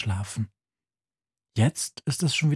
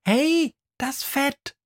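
high, slow mock alarm cry; mouse screams; slower than usual. Mouse faking a kitchen alarm for the boy, mock scream. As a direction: fake a panic to trick him awake. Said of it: "schreit sie".

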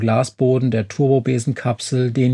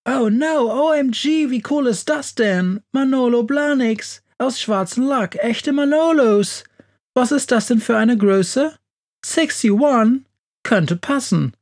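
much higher, gushing squeals; squealing with joy; 11 semitones higher than usual. A narrator's reading. Monster unwraps designer shoes from the search engine, squealing with joy. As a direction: squeal over dream shoes like a thrilled fan. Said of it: "juchzt es".

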